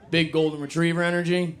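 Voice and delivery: bright, amused echo of "Big golden retriever energy"; delighted repeat. Real, not acted. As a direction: savour "Big golden retriever energy" like a new favourite saying. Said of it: "You heard that?".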